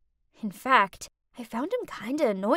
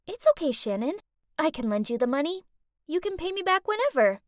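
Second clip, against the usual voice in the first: sweet reassurance; 4 semitones higher, faster than usual. Acted. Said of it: "smiling sweetly".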